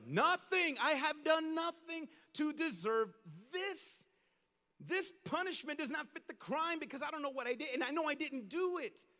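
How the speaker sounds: high pleading protest; lightly voiced Job pleading; innocent Job.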